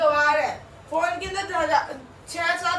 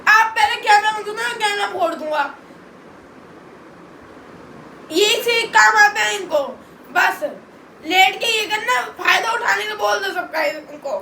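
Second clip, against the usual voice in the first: angry outburst. Real, not acted. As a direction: lash out in real exasperation. Furious brother rants at family.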